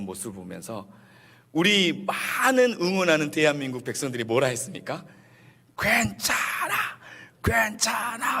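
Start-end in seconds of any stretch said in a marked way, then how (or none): 5.8-8.4 high, drawn-out mock crowd cry; stretched high call, not full volume; imitated tearful cheer. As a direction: call out like supporters consoling their team. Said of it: "하면서 막 울었어요".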